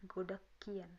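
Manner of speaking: "godak kian" with ng-h turned into a hard k; natural reading. Shown as a demonstration. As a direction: run it as "godak kian", k sound in the middle. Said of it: "atau bisa dibaca".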